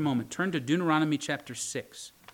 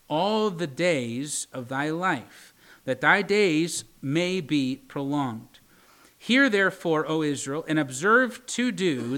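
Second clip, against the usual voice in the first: scripture reading. Acted. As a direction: read it out like holy writ. Reads Deuteronomy six aloud.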